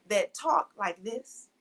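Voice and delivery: slow, careful standard American diction; proper standard English. Shown as a demonstration. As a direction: switch into measured, proper English speech. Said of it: "go back and forth from those two types of conversations".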